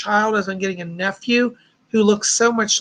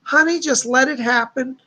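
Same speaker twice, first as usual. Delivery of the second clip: light, imitated Southern accent; a hint of sweet Southern lady; 3 semitones higher than usual. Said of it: "she speaks with a bit of a Southern".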